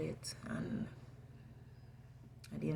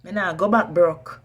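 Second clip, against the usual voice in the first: defiant shout; 8 dB louder than usual. Real, not acted. Defiant declaration.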